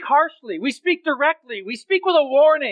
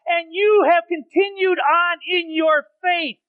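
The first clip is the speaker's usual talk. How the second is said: fervent preaching. Acted.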